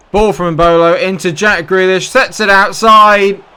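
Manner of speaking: commentary rising in pitch and volume; excited commentary. Real, not acted. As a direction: call the attack, building to a loud stretched finish. Calling a shot in a game.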